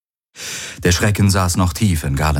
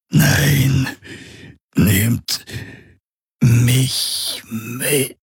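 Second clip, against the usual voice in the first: higher, whimpering plea with pauses; 6 semitones higher, much slower than usual. A narrator's reading. Hawks begs the crew to take him, whimpering. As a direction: beg them not to leave you. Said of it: "wimmerndes Wehklagen".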